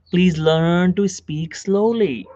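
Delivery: measured, drawn-out request; slow speech. Shown as a demonstration. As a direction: spell out the advice slowly. Models the slow speech he advises.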